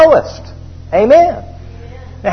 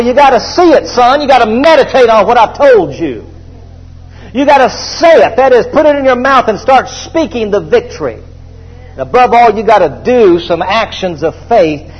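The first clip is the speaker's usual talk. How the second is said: God's voice; 3 semitones higher than usual. Retold or imitated. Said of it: "He says to Joshua".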